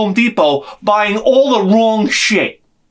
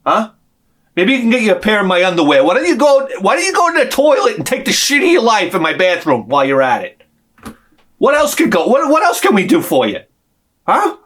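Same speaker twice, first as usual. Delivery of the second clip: sarcastic rant. Retold or imitated. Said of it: "I'm like".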